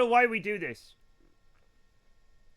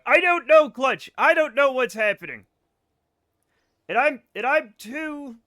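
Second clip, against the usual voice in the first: flustered yell; 5 semitones higher, 9 dB louder than usual. Real, not acted. Shouted out by chat, flustered.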